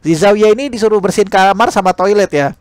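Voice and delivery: usual speaking voice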